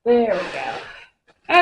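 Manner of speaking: slow drawn-out relieved sing-song. Real, not acted. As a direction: stretch it out with relief.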